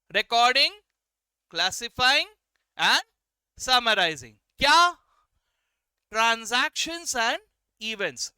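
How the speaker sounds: teacher prompting the class to read aloud; loud recitation. Shown as a demonstration. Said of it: "चलो फिर से देख के बोलो".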